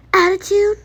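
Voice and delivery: indignant high echo of the word; incredulous. Real, not acted. Kid echoing mom's word back in disbelief.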